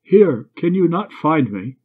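impatient, commanding call; insistent lady's command. A narrator's reading. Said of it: "Its command more insistent than ever".

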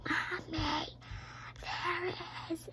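put-on baby bear whispering to his parents, upset. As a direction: whisper it, close to crying over the lost book. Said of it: "he was starting whispering".

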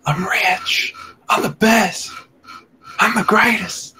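high, hammy gloating voice; mock boasting. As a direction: crow about being the greatest. Mock boasting, Emperor's New Groove.

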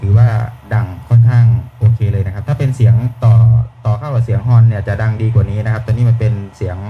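loud mic test over a PA horn; amplified through a roof speaker; through the loudspeaker. Real, not acted. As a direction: talk into the car speaker mic, booming out. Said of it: "เสียงไมค์ก็ถือว่าโอเคนะครับ".

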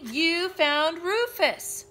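high, loud, slow and delighted; stretched-out happy child's exclamation; excited praise. Acted. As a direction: celebrate the baby's find. Girl praises baby's find.

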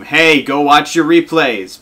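loud, high, drawn-out holler; mock scream. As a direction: yell it out like an exaggerated in-your-face announcement. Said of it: "come out and scream".

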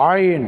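আইন squeezed out from mid-throat; pressed throat sound. Shown as a demonstration. Teacher answers own question on the letter, pressed-throat আইন. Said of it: "কণ্ঠনালীকে চেপে উচ্চারণ করতে হবে".

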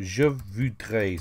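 slow teaching model. Shown as a demonstration. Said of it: "is just simply".

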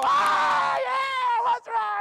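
very high shouted singer's holler; singer impersonation. Retold or imitated. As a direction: belt it out like a famous singer. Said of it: "he went like this".

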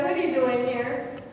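God gently asking the prophet; gentle voice of God. Retold or imitated. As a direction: ask it tenderly, not to rebuke. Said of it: "it was a nice voice".

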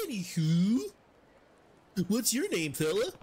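fumbling fake Swedish NPC voice; half-hearted Swedish accent drifting toward generic European; attempted Swedish accent. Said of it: "I try to do Swedish".

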